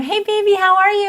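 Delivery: put-on very high baby-talk greeting; sing-song, high-pitched parent voice; talking to a toddler. Shown as a demonstration. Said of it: "When I'm talking to my toddler".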